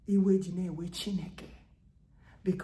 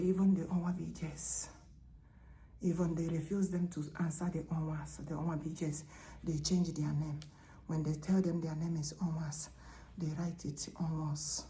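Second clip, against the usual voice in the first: soft voice of God; 4 dB quieter than usual. Acted. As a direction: let God confide in his queen, softly. God's voice again, hushed.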